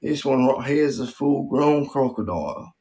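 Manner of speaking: mock Aussie wildlife presenter; Aussie crocodile wrangler. Wildlife host showing Billy a full-grown crocodile, mock Aussie presenter. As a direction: narrate the stunt in a put-on Australian accent.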